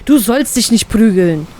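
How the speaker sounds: lightly voiced angry father scolding. A narrator's reading. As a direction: scold the child sharply. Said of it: "schimpft er".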